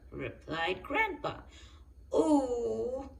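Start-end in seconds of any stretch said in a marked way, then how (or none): 2.1-3.1 excited gasp. A narrator's reading. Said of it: "gasped Peppa excitedly".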